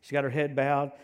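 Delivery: ordinary talk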